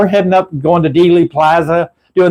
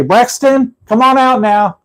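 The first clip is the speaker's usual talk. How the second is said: calling into the trunk; 6 semitones higher, slower than usual. Shown as a demonstration. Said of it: "knock on the trunk and say".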